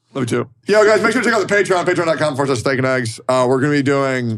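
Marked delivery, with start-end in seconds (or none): 0.6-3.1 super fast, pitched-up words blurred together. Plugging the show's patreon to listeners, very fast. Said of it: "say it so fast, I don't know what the fuck you just said".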